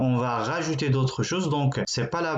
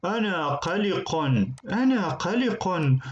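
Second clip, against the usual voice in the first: mock worried; 5 semitones higher than usual. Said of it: "Celui-là est inquiet".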